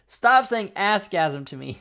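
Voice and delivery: mock annoyed outburst, high and loud at first; hammed-up scolding; mad girlfriend. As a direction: imitate an exasperated girlfriend's protest, easing off at the end. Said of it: "then she got mad".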